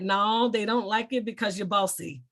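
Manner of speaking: lightly voiced Southern dad accent. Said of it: "in his Southern accent".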